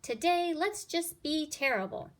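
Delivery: high and eager, up to no good; mischievous kids. Acted. Kids daring each other, high eager voice. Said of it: "they said".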